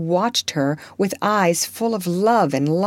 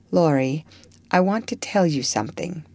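sober and serious. Acted. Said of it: "said very soberly".

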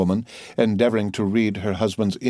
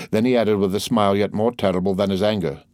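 ordinary delivery, nothing marked

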